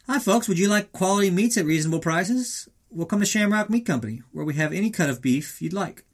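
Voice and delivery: mock radio spot; advertisement read. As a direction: sell it like a local butcher's ad. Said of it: "let's cut some of the advertisements".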